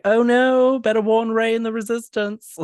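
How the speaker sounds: high, loud hammed-up panic; loud, high mock fright in character; mock alarm. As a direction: cast member playing frightened, pitch way up. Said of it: "And they're like".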